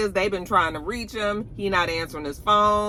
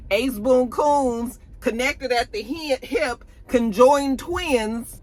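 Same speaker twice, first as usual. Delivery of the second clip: sarcastic disbelief; 6 semitones higher, slower than usual. Real, not acted. Mocking disbelief at Drew.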